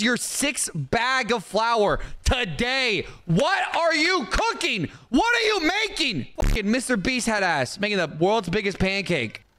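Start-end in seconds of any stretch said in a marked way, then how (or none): 3.3-6.3 high, slow disbelief; incredulous. Real, not acted. Shopkeeper asks the flour buyer what he's cooking, high. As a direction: ask it in total disbelief.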